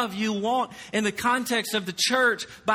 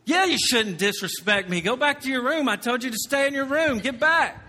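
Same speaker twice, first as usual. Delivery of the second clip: mock angry scolding; 5 semitones higher than usual. A dad re-enacting how he scolds his child, mock angry. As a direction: snap at the kid as a cross dad.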